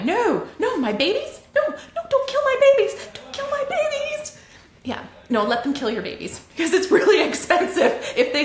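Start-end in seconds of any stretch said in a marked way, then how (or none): 0.0-4.4 high, laughing mock wail over her books; mock anguish. Author pretends to mourn her destroyed books, hammed-up high wail. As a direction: ham up a parent begging for her babies. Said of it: "here's me going".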